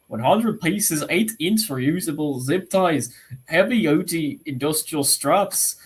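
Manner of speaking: a slow, shaky attempt at an Irish accent. Shown as a demonstration. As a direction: read it in a bad Irish accent. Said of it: "That was an Irish accent".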